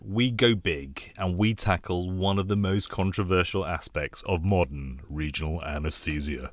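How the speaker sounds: lightly posh English tone; a touch of plummy posh. Pretend. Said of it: "That was my posh voice there".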